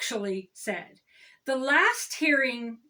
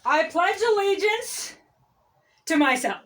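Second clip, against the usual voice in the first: mock vain pledge; 3 semitones higher, 3 dB louder than usual. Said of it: "It's more like this".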